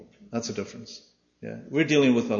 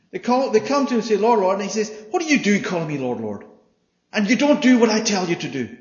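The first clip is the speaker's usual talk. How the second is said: emphatic retelling; 8 semitones higher, 6 dB louder than usual. Retold or imitated. Retelling Lord Lord scene.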